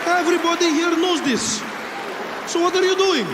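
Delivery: put-on high, loud Arabic-accented objection; mock Arab passenger challenging him; unimpressed objecting passenger. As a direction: argue back, building to an exasperated shout. Passenger argues with attacker.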